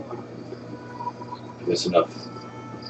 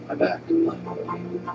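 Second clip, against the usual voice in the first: put-on old prospector; 10 semitones higher, 9 dB quieter than usual. Voicing a character.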